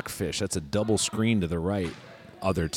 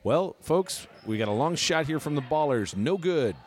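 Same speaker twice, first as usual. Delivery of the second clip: higher, excited play-by-play; frantic mock sports commentary; 3 semitones higher than usual. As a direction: call the game like a pro announcer. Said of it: "sportscaster voice".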